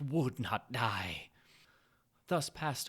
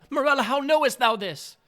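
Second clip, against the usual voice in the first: loud and much higher, pleading question; anguished cry; 11 semitones higher, 14 dB louder than usual. A narrator's reading. Husband begs dying Morella how she knows, crying out loud and high. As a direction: cry out in horrified disbelief. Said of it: "I cried".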